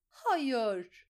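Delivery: loud, high no; shrieked refusal. A narrator's reading. Lysa screams no at Petyr.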